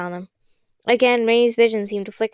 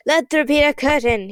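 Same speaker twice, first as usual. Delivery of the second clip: delighted roar; 4 semitones higher, 3 dB louder than usual. Acted. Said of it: "he roared in delight".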